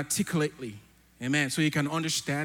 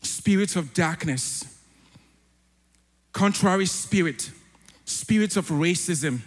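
prayer. Real, not acted. Opens the prayer.

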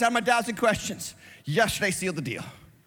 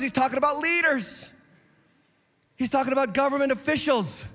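higher, driving sermon rant at bad leaders; indignant preaching; 3 semitones higher than usual. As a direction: preach it with rising outrage, hammering each point.

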